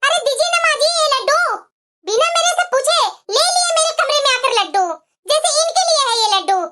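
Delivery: mildly angry, reproachful scolding; cross demand. Acted. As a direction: demand them back indignantly. Daughter-in-law demands laddus back. (नाराज़गी से टोकते हुए)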